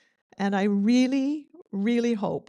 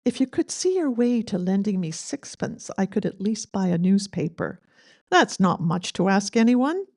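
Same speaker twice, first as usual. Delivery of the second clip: put-on light Scottish accent reading a begging poem. Eulogist reading dad's poem aloud, light Scottish accent. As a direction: lilt the lines in a gentle Scottish accent. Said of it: "Great Scottish accent".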